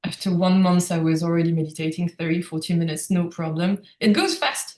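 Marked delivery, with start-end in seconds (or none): 4.0-4.8 higher, rising lift on goes; lifted emphasis. Real, not acted. Telling the host how quickly meditation grows, higher and rising. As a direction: toss it up brightly, rising at the end. Repeats phrase, first take lifted.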